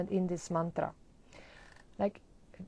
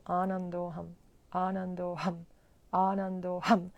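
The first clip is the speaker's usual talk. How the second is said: mantra repetition. Shown as a demonstration. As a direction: repeat it like a steady chant, bead by bead. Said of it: "and you say".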